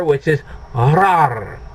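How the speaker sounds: slow "rar" with rolled r; rolled r demo. Shown as a demonstration. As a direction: say "rar" slowly, trilling the r. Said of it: "my suggestion on this first word".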